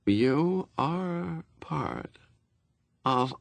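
high, very slow menacing voice; through the teeth. A narrator's reading. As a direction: spit it through clenched teeth. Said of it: "between teeth like beautiful bullets".

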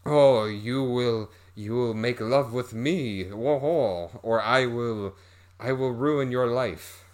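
mock a menacing spider man; spider guy. Spider creature threatening the woman, hammed-up villain voice. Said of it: "the spider guy is like".

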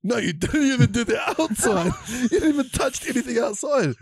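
a mum calling out the lie; scolding mum. Retold or imitated. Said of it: "She goes".

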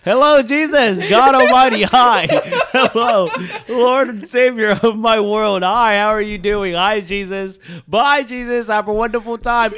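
high, loud hammed-up hailing; mock exuberant greeting. Host hailing Jesus as a bit, hammed-up shouting. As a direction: greet a deity with over-the-top gusto.

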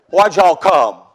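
folksy Southern twang on the question; Southern drawl. Retold or imitated. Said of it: "I don't speak Southern".

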